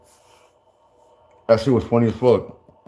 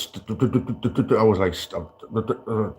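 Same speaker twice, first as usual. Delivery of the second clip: stammering; 3 dB quieter than usual. Retold or imitated. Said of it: "been knocked off my pivot".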